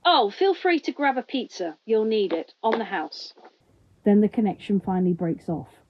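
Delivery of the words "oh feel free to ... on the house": tinny loudspeaker voice. Acted. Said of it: "the loudspeaker crackles one last time".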